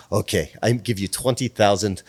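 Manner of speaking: mock Russian accent at normal volume; bad Russian-Ukrainian accent. Singer agrees to pay publicist, mock Russian accent. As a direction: imitate the client in a Russian accent. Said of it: "this is gonna be the worst accent".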